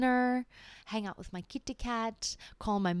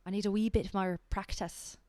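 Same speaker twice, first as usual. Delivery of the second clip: put-on Irish accent try. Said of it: "with an Irish accent".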